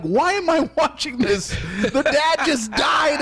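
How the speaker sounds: high, half-shouted, slow on the last words; mock distressed outcry. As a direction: wail at the TV in fake despair. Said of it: "I was literally like".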